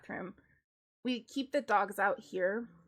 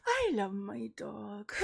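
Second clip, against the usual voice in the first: laughing quote; slower than usual. Real, not acted. Quoting husband while laughing.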